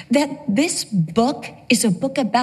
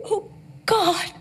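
crying out; 5 semitones higher, 3 dB quieter than usual. Retold or imitated. Desperate prayer for her daughter.

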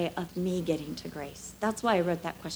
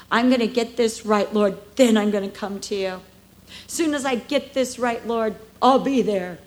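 louder, earnest mock promise to God; proud self-reliant voice; 3 semitones higher, 6 dB louder than usual. Preacher mimicking a proud believer, earnest mock promise. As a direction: play the believer who insists on fixing it first.

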